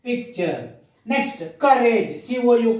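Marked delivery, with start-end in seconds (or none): 0.0-0.8 PICTURE split in two, lower and softer; stop inside word. Shown as a demonstration. Teacher repeating the stop for pupils, low and broken in two. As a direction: softly break PICTURE after pic. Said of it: "There is a stop here".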